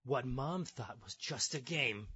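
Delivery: slow, ominous setup line; dramatic newscast tease; suspense news read. Acted. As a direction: draw it out for the sting. Reads article, setting up sting.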